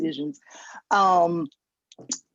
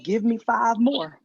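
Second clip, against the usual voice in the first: higher, deliberate mock defiance with long pauses; staring him down; 5 semitones higher than usual. Customer answering a doubting airport cashier, pointed defiance. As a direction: stare the cashier down, slowly upping the order. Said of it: "I stared him down and I said".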